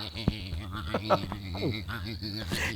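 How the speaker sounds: low, far-off villain cackle; evil laugh. Acted.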